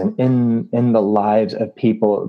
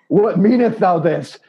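mock-biblical astonishment; 7 semitones higher than usual.

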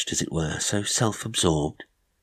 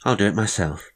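calling out; 7 semitones higher, 5 dB louder than usual. Acted. Calling to Maud.

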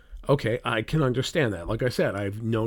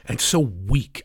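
"weak" punched as the key word; stress on weak; slower than usual. Real, not acted. Host driving home a criticism of the president, stress on "weak". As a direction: lean hard on "weak". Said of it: "cannot emphasize the word weak".

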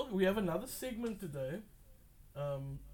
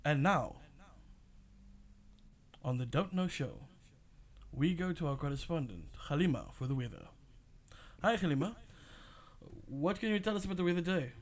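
announcer voice. Shown as a demonstration. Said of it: "here's my announcer voice".

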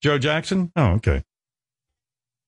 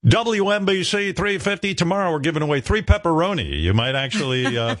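radio DJ voice; 7 semitones higher than usual. Pretend. Pretend DJ prize read.

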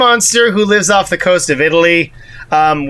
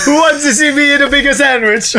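mock bully boast; 7 semitones higher than usual. Voicing the bully.

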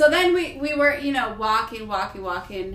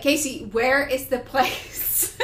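hangry; 4 semitones higher, 5 dB louder, slower than usual. Retold or imitated. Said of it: "I'm, like, hangry at this point".

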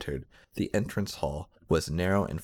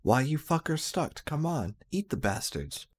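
angry shout; 8 semitones higher than usual. A narrator's reading. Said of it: "the mad lead hippie them shout".

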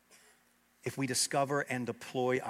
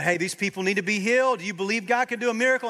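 mock televangelist; 8 semitones higher, 8 dB louder, faster than usual. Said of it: "talking about".

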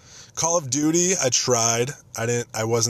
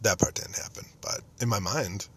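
hushed, confessional whisper; whispered aside; 6 dB quieter than usual. Real, not acted. Admitting to listeners the scene was made up, whispered. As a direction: let them in on the secret. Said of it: "confiding aside".

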